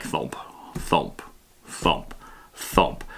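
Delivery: low, soft thumps, evenly spaced with pauses; imitated thudding footsteps. Explaining how the iron golem trudges along, imitated thudding footsteps. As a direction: voice a heavy trudge, one thump per step.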